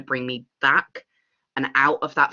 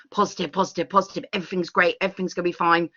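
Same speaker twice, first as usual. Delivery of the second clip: higher, chanted put-on cheer; mock false positivity; 4 semitones higher, faster than usual. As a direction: reel off reassurances like a relentless optimist. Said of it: "that false positivity".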